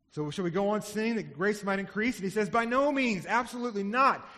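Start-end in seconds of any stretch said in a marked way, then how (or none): 2.5-4.3 forceful, louder and higher denial; emphatic. Retold or imitated. Paul answering his accusers with an emphatic, passionate refusal. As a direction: hammer the no home with passion. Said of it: "He is emphatic and passionate".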